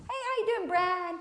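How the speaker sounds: bright high greeting to a friend; cheery greeting. Retold or imitated. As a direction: call out hey like you know him well. Acted casual greeting to friend.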